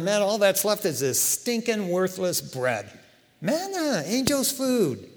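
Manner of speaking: grumble, pitch jumping high on manna; mock complaining. Hungry Israelites in the wilderness gripe about manna, mock complaining. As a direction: imitate a fed-up crowd griping. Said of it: "they were complaining".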